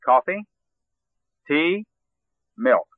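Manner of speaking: coffee and tea rise, milk falls; rising list, falling on the last. Shown as a demonstration. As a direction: lift each choice, drop on milk. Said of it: "Use a rising intonation for all except the final alternative".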